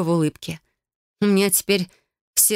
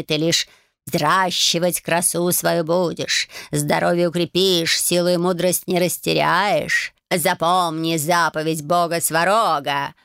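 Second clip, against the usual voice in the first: calm, preachy cat. Acted. Cat Bayun instructs Marya about hair, calm and preachy. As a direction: teach her like a wise old cat. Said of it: "спокойным, нравоучительным голосом пропел".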